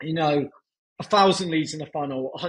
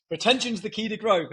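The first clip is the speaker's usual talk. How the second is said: put-on a slightly rougher British-style accent, pitched higher; lightly roughen the accent; 6 semitones higher than usual. Boss repeating the motto to his own team, in a slightly rougher accent. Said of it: "slightly rougher accent".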